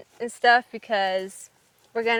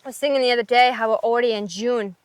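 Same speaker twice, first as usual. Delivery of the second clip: wobbly put-on Irish accent; Irish accent attempt. Shown as a demonstration. Still talking in Ireland, unsure Irish accent. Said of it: "I'm still going to be talking in Ireland".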